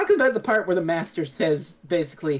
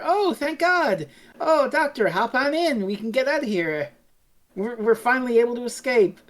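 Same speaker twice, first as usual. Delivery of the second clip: acted relief; 5 semitones higher than usual. Acts out rescued Doctor's companions' relief.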